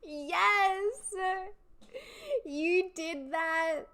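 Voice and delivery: cheering. Real, not acted. Streamer cheering a fan who finally got a job. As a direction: celebrate her win with pride.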